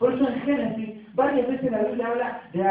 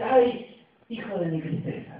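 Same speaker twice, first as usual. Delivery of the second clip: dying sigh. Retold or imitated. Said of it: "ella suspira y dice".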